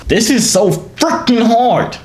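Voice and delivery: high, drawn-out frustrated outburst; exasperated. Real, not acted. Struggling to chat up strangers, exasperated. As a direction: wail it in exasperation, loud bursts.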